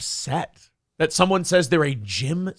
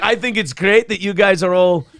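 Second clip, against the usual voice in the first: chirpy mock-Scot, pitched up a little; Scottish accent; 2 semitones higher, 4 dB louder than usual. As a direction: do a bad Scottish impression of an Irish guy. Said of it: "I'm gonna do Scottish for an Irishman".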